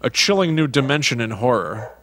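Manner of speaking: lightly dramatic announcer, lifted on key phrases; trailer tagline read. Acted. Podcast host reading horror film taglines, mildly dramatic announcer. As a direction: read it like movie taglines, pausing between phrases.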